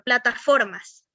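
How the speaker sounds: "plataformas" said slowly, falling at the end; slow teacher's "plataformas", weight on FOR; drawn-out example word. Shown as a demonstration. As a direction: draw out "plataformas" slowly so the stressed FOR can be heard. Teacher models word for stress question.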